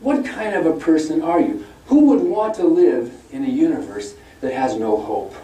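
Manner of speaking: mock sermon of moral outrage; mock lecturing. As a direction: scold them as a preacher would, climbing in pitch. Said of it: "he was lecturing us atheists".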